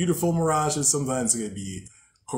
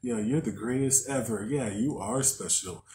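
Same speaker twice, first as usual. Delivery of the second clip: sweet nothings; 3 semitones lower, 5 dB quieter than usual. Retold or imitated. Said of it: "feed you sweet nothings and be like".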